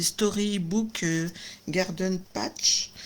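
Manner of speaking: English product names said slowly in a strong French accent. Real, not acted. A French crafter reads English product names to her viewers in a strong French accent. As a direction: sound out Storybook and Garden Patch slowly with French vowels. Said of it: "Oh là là, mon accent".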